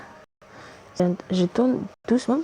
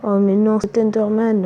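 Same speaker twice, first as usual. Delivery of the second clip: loud dismayed groan; exasperated yell at the game; raging gamer; 5 dB louder than usual. Real, not acted. Enderman appears, gamer upset. (joueur énervé)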